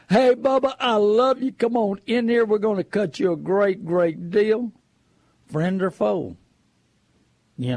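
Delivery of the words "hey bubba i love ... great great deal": mock friendly salesman. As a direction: play the too-friendly dealer luring a customer in. Mock sweet-talking car salesman.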